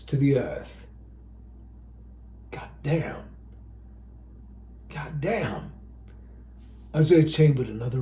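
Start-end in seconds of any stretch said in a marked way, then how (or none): 2.5-5.7 soft, breathy disbelieving curse; stunned curse. Acted. Isaiah seeing the hit German keep walking, soft stunned curse. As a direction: whisper it in disbelief. Soldier stunned, bullet useless.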